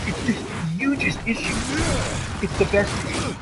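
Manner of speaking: a lightly voiced Donald Trump, boastful; hammed-up Trump rally brag; Trump impression. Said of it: "I'm really working on my Trump accent".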